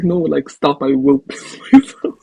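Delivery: pleading through laughter; mock protest breaking into a laugh. Friend begging the other to stop being funny, laughing protest. Acting someone laughing too hard to hold it.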